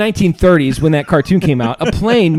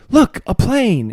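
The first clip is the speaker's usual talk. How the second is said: cartoon bystander; 8 semitones higher, much slower than usual. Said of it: "the next guy would go".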